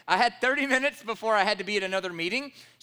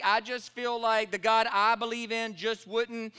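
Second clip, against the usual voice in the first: mimicking feelings talk; 2 semitones higher than usual. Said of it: "you fill the blanket with anything".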